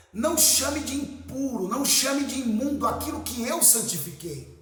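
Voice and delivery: lightly acted divine rebuke; emphatic command, leaning on each "não"; voice of God. God correcting Peter in the vision, mildly commanding voice.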